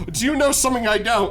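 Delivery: suspicious and thrown, laugh in the middle; retold startled demand; baffled suspicion. Confused, accusing coworker who laughs.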